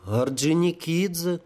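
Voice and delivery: slow, high and glowing; light up as you say it; beaming. Acted. Holy fool answers the sapper, beaming. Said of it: "просиял тётя".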